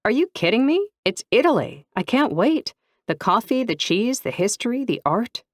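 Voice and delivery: put-on giddy girl listing what she loves about Italy; lit up with excitement. A narrator's reading. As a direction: rattle off the dream list, thrilled. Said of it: "Saxony lit up".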